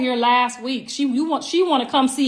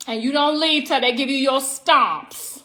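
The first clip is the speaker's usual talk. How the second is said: New York accent. Shown as a demonstration. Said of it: "this how they say it".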